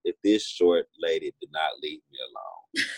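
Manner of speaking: quoting her own annoyed thought while laughing; half-laughing, fed-up inner quote; laughing through it. Retold or imitated. Retelling her annoyance at a bubbly coworker, laughing.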